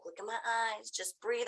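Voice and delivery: soft, calming voice; soothing. Retold or imitated. Worker calming a petrified climber, soft and soothing. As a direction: talk someone softly down from panic. Staff calms her down.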